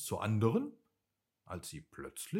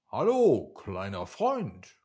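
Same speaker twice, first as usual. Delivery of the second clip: a loud friendly hello, then easing down; calling out; 3 semitones lower, 7 dB louder than usual. A narrator's reading. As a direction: call out a greeting to a new friend. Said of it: "rief Wally". (freundlich laut gerufen)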